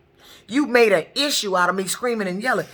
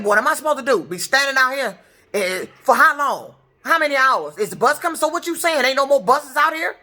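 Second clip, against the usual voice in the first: higher, pressing questions; raised indignant tone; 5 semitones higher than usual. Retold or imitated. Demanding answers from the dispatcher about the bus, raised indignant tone. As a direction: fire questions at her, fed up. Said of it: "And I said it just like that".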